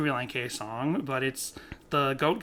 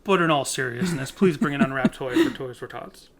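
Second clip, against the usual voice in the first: serious announcer voice. Retold or imitated. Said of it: "the announcer should have been".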